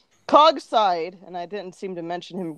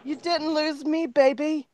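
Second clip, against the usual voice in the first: put-on British accent; 6 semitones higher than usual. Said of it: "I guess British people".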